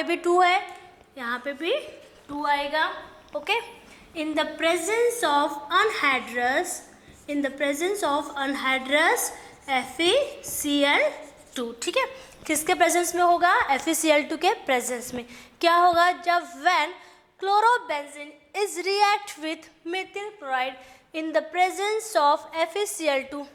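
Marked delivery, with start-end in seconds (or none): 4.2-11.7 slow, word-by-word note dictation. Shown as a demonstration. Teacher dictating notes to the class, slow and deliberate. 17.4-23.4 slow, word-by-word note dictation. Shown as a demonstration. Teacher dictating notes to the class, slow and deliberate.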